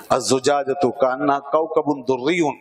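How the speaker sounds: slow, measured chanting of the verse; Quranic recitation. Shown as a demonstration. Teacher reciting the verse to his students, slow chanted recitation. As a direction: recite it slowly, like a verse read aloud.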